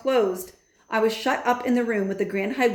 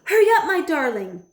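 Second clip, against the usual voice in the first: high, loud call across the room; 9 semitones higher, 6 dB louder than usual. A narrator's reading. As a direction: call her grandson urgently. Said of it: "my grandmother shouted".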